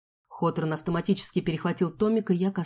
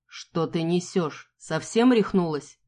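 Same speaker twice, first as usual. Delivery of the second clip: slow, outraged disbelief; indignant; slower than usual. Acted. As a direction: play it wounded and offended. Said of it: "искренне возмущённым".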